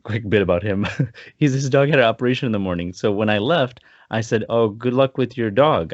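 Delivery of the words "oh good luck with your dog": sincere. Shown as a demonstration. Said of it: "I meant it sincerely".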